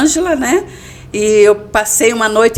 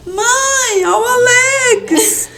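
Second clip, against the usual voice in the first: put-on high tearful little girl whine; crying child calling mom; much slower than usual. Little daughter running to complain.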